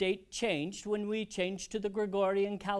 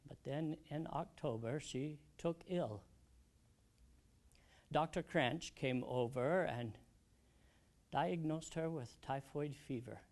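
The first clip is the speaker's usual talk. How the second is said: subdued sorrow; 5 dB quieter than usual. Acted. Widower recalling his wife's last illness, subdued sorrow. Recalls wife falling fatally ill.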